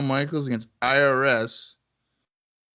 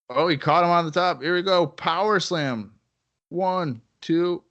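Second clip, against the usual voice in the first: higher, louder play-by-play; wrestling commentator; 5 semitones higher, 3 dB louder than usual. Acted. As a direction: call the finish live. Live play-by-play of the match.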